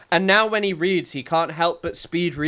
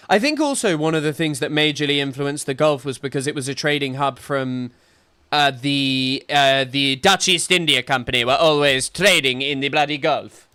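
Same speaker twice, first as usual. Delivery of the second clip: slipping into a South African accent; unintended South African accent. Real, not acted. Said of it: "started sounding like I had a South African accent".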